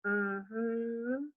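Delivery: soft, dry hum; a flat unimpressed murmur; dryly. A narrator's reading. Mama answering the nosy neighbor, quietly dry. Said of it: "Mama says dryly".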